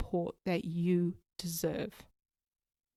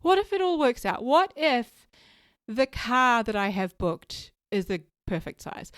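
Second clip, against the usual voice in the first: upbeat hopeful; slower than usual. Retold or imitated. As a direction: cheer herself up, brightening. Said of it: "I had to keep saying that".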